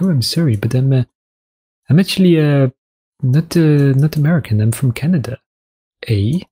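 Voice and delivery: mildly mock an apologetic Canadian, stopping and starting. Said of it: "I once called a Canadian American accidentally".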